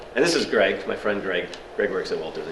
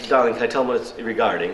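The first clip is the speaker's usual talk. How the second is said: screening receptionist, mock English; bad English accent; faster than usual. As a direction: query the caller in fake English tones. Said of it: "do a bad English accent".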